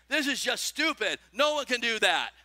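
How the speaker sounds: put-on sulky child sounding off; loud declaring. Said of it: "while loudly declaring".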